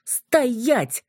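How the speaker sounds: sharp high barked stop; barked command. Acted. Yulia stopping Kolya and the others, barked. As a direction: bark it to freeze them all. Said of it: "рявкнула я".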